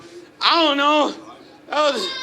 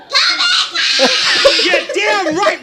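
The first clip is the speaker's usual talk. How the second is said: 1 excited cheer; 4 semitones higher, 5 dB louder than usual. Real, not acted. Cheering the kid's line.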